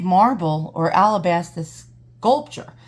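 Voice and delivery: slow, winded after heavy lifting; out of breath. Real, not acted. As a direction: gasp the words out, short of air. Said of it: "I'm so out of breath from dragging".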